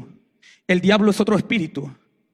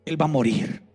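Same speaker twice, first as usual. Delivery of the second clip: death's voice; 3 semitones lower than usual. Retold or imitated. Death spirit speaks through witch.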